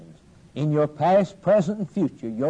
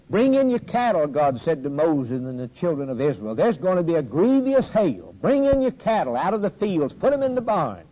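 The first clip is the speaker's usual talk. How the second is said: commanding God; 3 semitones higher than usual. Retold or imitated. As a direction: call the warning out from above. God voiced giving a command.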